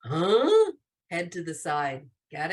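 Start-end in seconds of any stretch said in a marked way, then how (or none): 0.0-0.7 "huh?" as a punchy, puzzled question; louder, quizzical "huh?". Shown as a demonstration. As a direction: act out a question mark on "huh?". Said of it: "a question mark is the".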